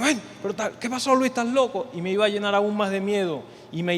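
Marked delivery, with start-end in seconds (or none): 0.0-1.9 a lightly voiced brother poking fun; Johan teasing. Church brother to Luis walking on water, light teasing. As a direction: tease him like a friend in church. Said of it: "iba a escuchar al hermano Johan".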